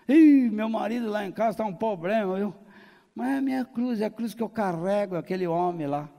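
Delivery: mock wifely grumble, easing back down; esposa se queixando. (esposa reclamando, de leve)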